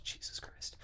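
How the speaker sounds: unvoiced swear under the breath; muttered exasperation. Real, not acted. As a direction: drop to a whisper, overwhelmed by the text. Muttered reaction to the dense text.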